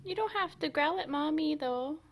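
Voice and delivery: high, loud cooing to the dog; pet talk. Real, not acted. Owner telling dog not to growl, high cooing. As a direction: gently scold the pet.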